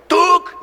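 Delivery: sharp high "Tuk!" like a blow; mock "tuk" strike noise. Friend jokingly striking with an invisible club, high sharp sound.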